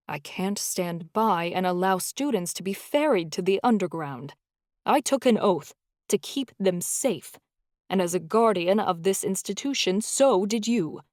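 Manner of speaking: firm, rising conviction; insistent. Acted. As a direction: press the point home. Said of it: "Takahashi insisted".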